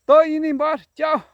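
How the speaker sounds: high, loud little parrot voice; parrot talking. Acted. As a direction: chirp it like a parrot saying goodbye. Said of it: "um dia ele disse".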